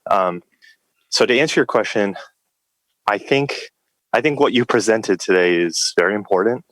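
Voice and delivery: short of breath from outdoor work; breathless, catching air between phrases. Real, not acted. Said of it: "I'm short of breath".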